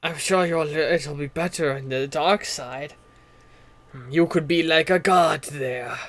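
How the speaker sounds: slow, deliberate dark-side tempter; persuasive game character. Acted. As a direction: lure slowly in a put-on low-key voice. Game master plays non-player character.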